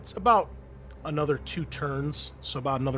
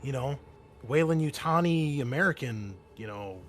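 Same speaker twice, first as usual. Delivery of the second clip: Mason's voice. Acted. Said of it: "Mason says".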